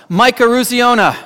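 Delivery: exhausted player yelling back at the coach; yelled out. Retold or imitated. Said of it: "he yells out".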